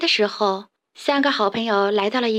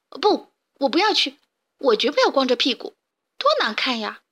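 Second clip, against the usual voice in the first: grumbling lamb; 2 semitones higher than usual. Acted. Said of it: "贝里奥嘟囔着".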